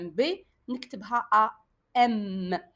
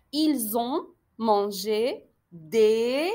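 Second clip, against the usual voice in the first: slow dictation; much slower than usual. Shown as a demonstration.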